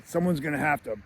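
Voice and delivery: high, mock bullying shout; Buzz. Bully Buzz teases Kevin about pizza, high mock taunt. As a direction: taunt like a big brother, raising the pitch. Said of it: "Buzz is like".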